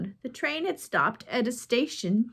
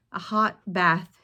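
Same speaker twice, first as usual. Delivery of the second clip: longing; 3 semitones lower, slower than usual. A narrator's reading. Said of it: "she said longingly".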